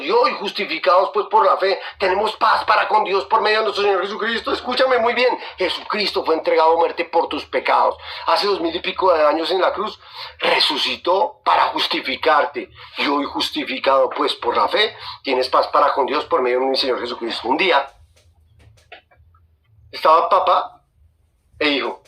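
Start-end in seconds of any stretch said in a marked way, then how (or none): 5.6-17.5 deliberate personal restatement. Shown as a demonstration. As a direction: bring it down and spell it out for the listener. Verse restated personally after "Escúchame.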